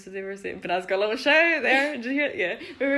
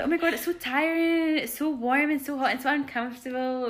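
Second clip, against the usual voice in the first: higher-pitched imitation of a complainer; mock whining; 3 semitones higher than usual. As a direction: put on a pampered festival-goer's whine. Mimics whining festival-goers again.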